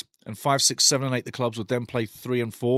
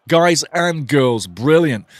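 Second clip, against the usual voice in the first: excited praise; 8 dB louder, much slower than usual. Real, not acted. Hyping the cheering fans.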